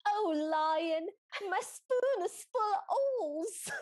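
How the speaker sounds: loud, rising whiny plea; hammed-up pleading wail. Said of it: "it's exactly what it sounded like".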